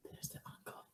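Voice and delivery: hushed whisper. Real, not acted. Whispered aside spotting uncle.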